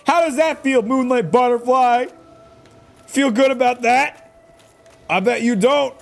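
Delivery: loud, high jeering at the boss; gloating yell at the butterfly boss; mocking taunt. Real, not acted.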